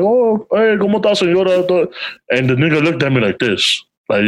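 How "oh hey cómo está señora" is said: higher-pitched polite phone hello; chirpy retold greeting; acted friendly greeting.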